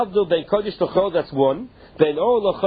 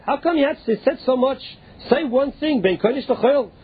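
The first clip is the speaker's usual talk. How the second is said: higher-pitched, puzzled Talmudic objection; challenging question; 5 semitones higher than usual. Acted. Voicing a challenge in Talmud debate.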